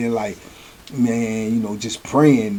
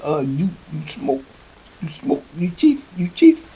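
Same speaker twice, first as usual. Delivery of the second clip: put-on higher-pitched, halting African accent; Chief; 5 semitones higher, 4 dB quieter than usual. Chief asks the new inmate if he smokes, imitated African accent. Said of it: "He had a thick accent".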